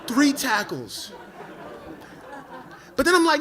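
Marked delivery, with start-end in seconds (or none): 0.1-1.1 aggrieved emphasis. Retold or imitated. Aggrieved repeat of the complaint.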